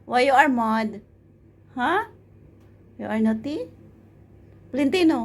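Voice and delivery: high cooing coax. Real, not acted. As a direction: sweet-talk a sulking cat. Coaxing a grumpy cat.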